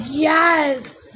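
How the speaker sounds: high, loud, drawn-out mock "Yes!"; mock-sensual cry of yes; exaggerated moaning yes. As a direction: ham up a breathy rated X "Yes!". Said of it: "you don't have to say it like".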